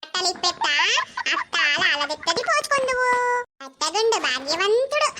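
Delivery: put-on gentle cooing to a baby; baby talk. Grandmother readies the baby for a bath, cooing baby talk.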